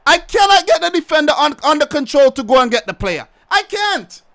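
angry gamer complaint; frustrated outburst. Real, not acted. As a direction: rant at the controls. Frustrated with defender control.

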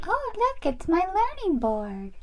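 high, sing-song doll voice; cheerful learner doll. Pretend. Doll loves learning then spots crying friend, high and eager.

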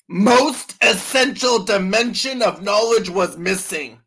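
heavy emphasis on every word; all-caps emphasis. Acted. Reading the book's capitals aloud, emphatically. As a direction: punch each word as if capitalized. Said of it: "all caps".

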